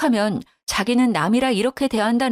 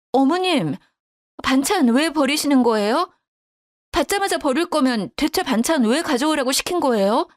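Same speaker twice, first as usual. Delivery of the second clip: higher, accusing questions; mildly heated protest; indignant confrontation; 6 semitones higher than usual. A narrator's reading. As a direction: demand an explanation, voice raised in pitch. Daughter-in-law confronts her angrily.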